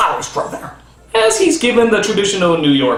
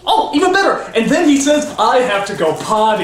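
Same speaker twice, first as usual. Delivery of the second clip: indulgent dad; 4 semitones higher than usual. Pretend. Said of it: "five-year-old".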